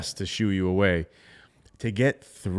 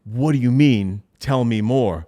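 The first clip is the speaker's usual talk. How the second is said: eager interest; 6 dB louder, slower than usual. Retold or imitated. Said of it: "they'd go".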